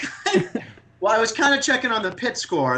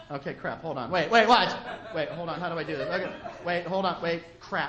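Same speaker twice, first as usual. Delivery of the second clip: fumbling mutter; 2 semitones lower, 7 dB quieter than usual. Retold or imitated. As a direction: mutter while struggling with the phone. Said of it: "They're like".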